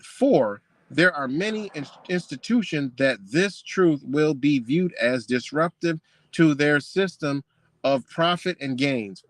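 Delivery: slow, deliberate quoting; stately reading from a book; measured book reading. Retold or imitated. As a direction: read the formal sentence out word by word. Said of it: "you about to sound this sophisticated".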